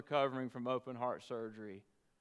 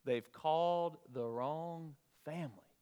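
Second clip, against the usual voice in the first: choked up. Real, not acted. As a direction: voice catching with real emotion. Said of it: "I'm getting emotional just thinking about it".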